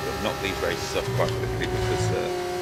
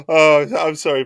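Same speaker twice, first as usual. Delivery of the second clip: loud apology; 6 semitones higher, 9 dB louder than usual. Real, not acted. Apologises to viewer.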